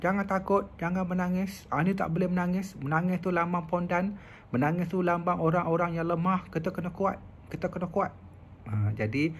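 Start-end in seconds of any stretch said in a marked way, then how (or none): 0.0-8.1 higher, stern lecturing mother; a hint of a harsh parent forbidding tears. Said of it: "dia marah anak dia". (ibu tegas melarang anak menangis, nada tinggi)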